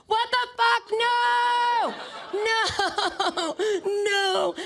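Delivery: high, drawn-out comic wail; anguished scream. Retold or imitated. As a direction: shriek in hammed-up horror. Waking from dream, acted despair.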